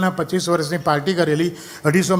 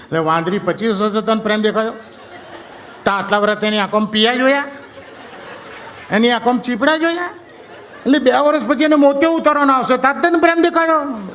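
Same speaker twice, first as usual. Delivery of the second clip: mocking outrage; 6 semitones higher than usual. Real, not acted. Comic mocking rant at song.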